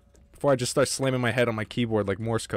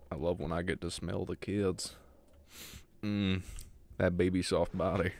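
creepy monster voice; 6 semitones lower, 9 dB quieter than usual. Pretend. Voicing the monster's thoughts.

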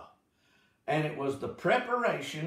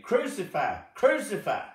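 rising cry, second much higher and louder; crowd crying out; 8 semitones higher, 4 dB louder than usual. Acted. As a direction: call for it like a mob.

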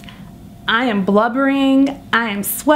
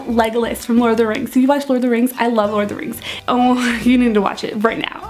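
nervous rambling; much faster than usual. Acted. Oversharing rambling to a stranger.

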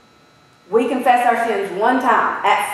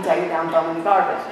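laughing; 5 semitones lower, much faster than usual. Real, not acted. Joke about kids' pictures.

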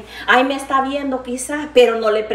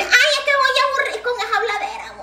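laughing quote; 12 semitones higher than usual. Retold or imitated.

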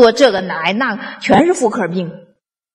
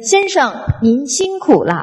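fake politeness; 6 semitones higher than usual. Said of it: "我假模假式儿的回去".

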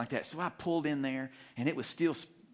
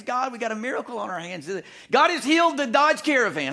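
much higher and louder, praising the healed van; jubilant proclamation; 8 semitones higher, 6 dB louder than usual. Acted. Preacher celebrates the van's healing, high joyful shout. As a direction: shout the miracle to the church.

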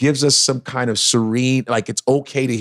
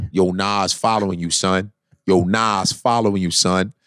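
low flat troll voice; 6 semitones lower than usual. Retold or imitated. Troll repeating message.

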